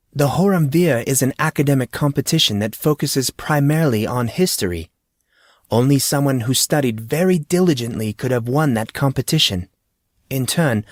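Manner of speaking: friendly teacher voice. Acted. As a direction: speak as an amused teacher. Teacher character dialogue.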